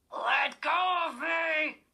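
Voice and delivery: slow, high, loud cry of panic; terrified girl yelling at the dummy to let go; panicked shout. A narrator's reading. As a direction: scream it as he grabs you.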